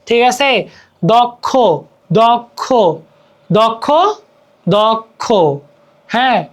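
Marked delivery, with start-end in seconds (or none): 1.1-5.2 দক্ষ as "dok-kho", separated by pauses; pronunciation drill. Shown as a demonstration. Teacher drilling students, দক্ষ repeated as "dok-kho". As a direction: repeat দক্ষ carefully with a doubled kh.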